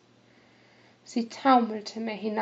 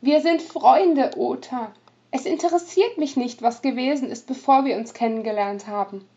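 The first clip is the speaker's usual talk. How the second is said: put-on loud, insistent young woman; energetic protest; 2 semitones higher, 6 dB louder than usual. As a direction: protest with force. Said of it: "widersprach ihm energisch".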